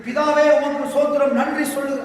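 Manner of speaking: mock a ritual thanksgiving; formal prayer. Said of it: "அந்த மாதிரி எல்லாம் வேண்டாம்". (சடங்கான ஜெப தொனி)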